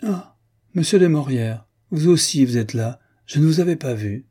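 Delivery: mock surprised high exclaim; a society lady's exaggerated cry of surprise. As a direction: feign delight at spotting him. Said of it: "et s'écria".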